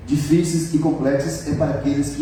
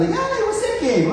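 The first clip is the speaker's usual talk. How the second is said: put-on much higher, slow girlish question; woman's voice. Girl asking who sent the flowers, high and coy. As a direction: play the surprised girl on the phone.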